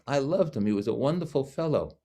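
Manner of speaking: high imitated doctor's voice, touched; a little touched. Doctor remembering the patient's father, a little touched. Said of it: "a little touched by it".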